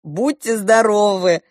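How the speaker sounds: slow, mild parrot call; lightly voiced parrot repeating; parrot imitation. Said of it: "попугай Шива ... говорит".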